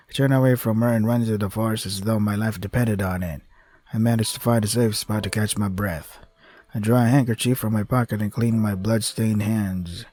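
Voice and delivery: steady dramatic reading; story narration. A narrator's reading. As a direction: read it like a novel. Reads visual novel narration.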